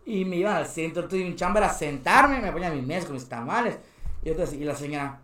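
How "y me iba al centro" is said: ordinary delivery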